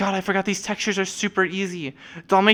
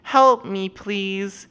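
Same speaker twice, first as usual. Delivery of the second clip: drawn-out, hammed-up cry for help; slow, pleading mock fright; mock scared plea; 3 semitones higher, much slower than usual. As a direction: play up being helpless and in danger. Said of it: "have a safety vest on and be like".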